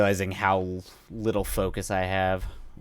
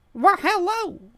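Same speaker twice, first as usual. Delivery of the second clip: very high, loud, campy put-on cartoon voice; 6 dB louder than usual. Joking around before signing off for the night, in a cartoon voice. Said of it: "It's like a cartoon".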